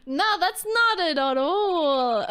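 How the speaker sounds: laughing correction. Real, not acted.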